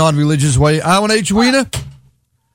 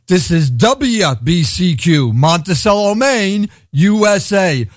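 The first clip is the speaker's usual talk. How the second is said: mock radio announcer, slower; imitating announcer; slower than usual. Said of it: "he did it like this".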